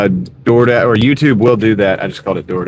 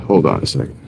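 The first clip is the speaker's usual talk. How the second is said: popping mic; 7 semitones lower, 5 dB quieter, faster than usual. Real, not acted. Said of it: "The mic is popping every time I talk".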